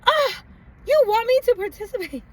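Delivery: high, loud astonished squeal; aghast at the suggestion; mock-horrified young self; shocked disbelief. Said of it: "And I was like".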